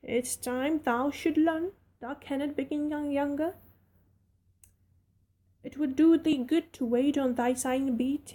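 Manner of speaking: put-on friendly servant girl rattling on; Yorkshire maid Martha.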